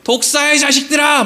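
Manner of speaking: acting out an angry prophet's insult; cursing rebuke. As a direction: hurl it as a preacher's mock curse. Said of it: "막 욕을 하면서".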